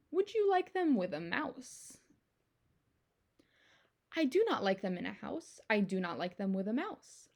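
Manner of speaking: lively storybook read-aloud, bouncing rhythm; reading to children. Acted. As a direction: read it to the kids with playful emphasis. Reads picture book aloud.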